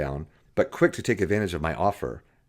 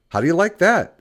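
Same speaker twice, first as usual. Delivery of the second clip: smiling; 11 semitones higher, 5 dB louder than usual. A narrator's reading.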